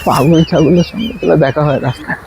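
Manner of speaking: loud, low insulting yell; angry shouting. Acted. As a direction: bellow the insults.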